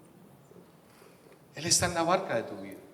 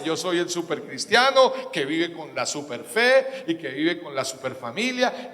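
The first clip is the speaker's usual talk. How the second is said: slow, hammed-up boast of the supercristiano; mock the proud believer, slowly; mocking super-Christian; 3 dB louder than usual. (con burla lenta, presumiendo de supercristiano)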